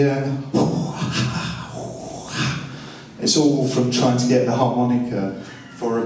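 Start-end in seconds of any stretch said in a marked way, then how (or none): 0.4-2.9 sigh. Shown as a demonstration. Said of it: "that makes up the".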